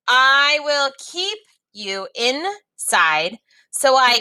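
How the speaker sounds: put-on lively read-aloud for young learners; story reading. A narrator's reading. Teacher reading a story to students, lively read-aloud.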